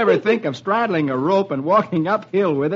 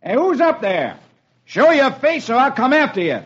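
mock shout; 9 semitones higher than usual.

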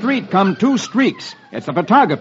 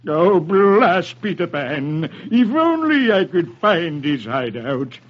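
pirate captain; slower than usual. Acted. Hook cursing Peter Pan.

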